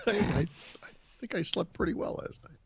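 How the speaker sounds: yawning through the words. Real, not acted. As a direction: talk mid-yawn, sleepy. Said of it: "I start yawning".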